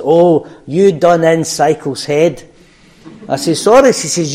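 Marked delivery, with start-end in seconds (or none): 0.0-2.4 imitating Anne. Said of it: "this is the way she says it". 3.6-3.9 high, loud startled "Sorry"; surprised. Retold or imitated. Surprised reply in retold talk.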